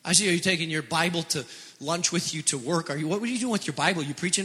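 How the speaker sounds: hushed, quick, needling mock worry; mock-concerned doubter. Doubting friend questioning your Bible at lunch, hushed mock worry. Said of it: "people around you are like".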